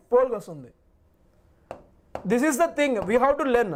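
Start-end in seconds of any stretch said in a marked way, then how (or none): 2.3-3.7 every word slowed to drive it home; slow, emphatic. Shown as a demonstration. Teacher to students, slowly stressing what they must learn. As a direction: stretch it out so it sticks. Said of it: "teacher stresses the lesson".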